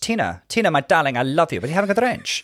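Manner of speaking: lightly voiced grand diva; a hint of a suave old star; a famous diva singer's voice. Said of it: "the rock profile version of a famous singer".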